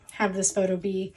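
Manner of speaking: words through a yawn; stretched out mid-yawn. Real, not acted. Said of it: "sorry, here I am yawning".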